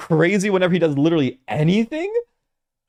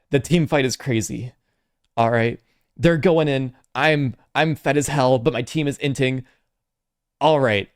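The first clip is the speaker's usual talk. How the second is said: League streamer impression. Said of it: "my best impression of a League streamer".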